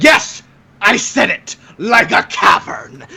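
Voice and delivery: lightly voiced cranky old smith, slow at the end; a hint of a grumpy old man storming out; a touch of an old crank, drawn out; ratchety old man. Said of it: "in his ratchety old man state".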